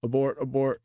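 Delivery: high hammy alarm call; mock alarm. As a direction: cry abort in mock panic. Mock panic calling out.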